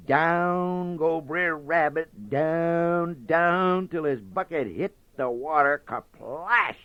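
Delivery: rising, drawn-out down, down; falling down. A narrator's reading. Narrator dramatizes the fall.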